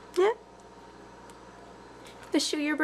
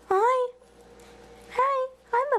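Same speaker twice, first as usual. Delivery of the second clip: high-pitched greeting to a pet; pet-talk greeting; 7 semitones higher, 4 dB louder, much slower than usual. Real, not acted.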